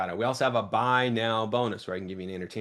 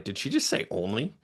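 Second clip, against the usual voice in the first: shocked customer; 3 semitones higher than usual. Retold or imitated. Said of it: "should hear you be like".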